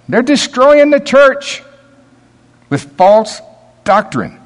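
high, loud, slow denunciation; rising shout. Real, not acted. Preacher crying out against false teachers, loud and slow. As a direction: thunder against false doctrine.

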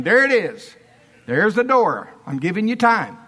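full-voiced preacher showing them out; forceful dismissal. Preacher to offended members at revival, forceful dismissal. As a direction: declare it hard, pointedly leaving room to go. Preacher orders objectors to the door.

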